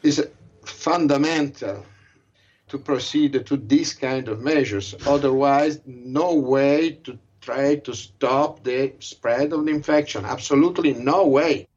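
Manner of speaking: muffled through a surgical mask; through a face mask. Real, not acted. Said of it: "speaking through a surgical mask".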